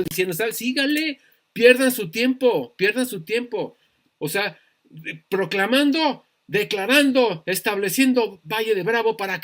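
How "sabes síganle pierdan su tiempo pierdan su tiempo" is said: Satanás burlón. Retold or imitated. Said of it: "Satanás ha de estar riendo, carcajeando".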